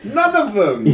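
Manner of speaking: high laughing cry; laughing shout. Real, not acted. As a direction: blurt it out through laughter. Laughing outburst.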